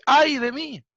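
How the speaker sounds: high, loud cry of dismay; anguished cry. Acted. Isaiah crying out before God's holiness, anguished cry. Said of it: "él dice".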